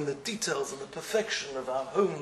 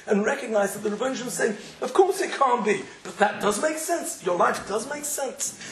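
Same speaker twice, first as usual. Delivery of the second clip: fervent preaching; 5 semitones higher, 4 dB louder than usual. Acted.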